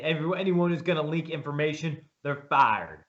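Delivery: a light Southern twang, imitating the new head coach; Freddie Kitchens Southern twang. New coach warning staff about leaks, light Southern twang imitation. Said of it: "in that Southern twang accent".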